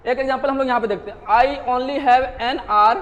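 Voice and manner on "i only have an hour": very slow, careful reading of the example. Shown as a demonstration. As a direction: lay out the sentence slowly for students. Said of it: "sounds like R".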